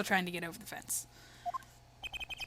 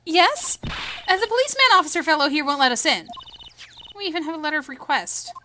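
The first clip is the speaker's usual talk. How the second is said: put-on higher, louder girlish voice; eager girl investigator; 7 semitones higher, 7 dB louder than usual. Girl complaining to a gentleman about the policeman, eager girlish voice. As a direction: pitch it up, insistent and quick.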